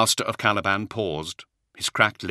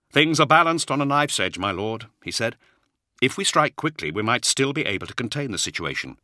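raised, urgent counsel; 6 semitones higher than usual. Acted. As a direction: push for swift action.

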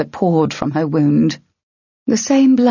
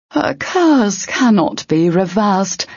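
slow, higher ogre voice; 4 semitones higher, slower than usual. Acted. Ogre telling Tern all is lost, slow ogre voice. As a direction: pronounce it slowly like a doom.

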